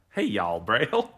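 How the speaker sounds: loose imitation of a Southern accent. Co-host copies the Southern attempt, in a half-managed Southern accent. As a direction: have a light go at Southern. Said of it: "not the best version of that accent".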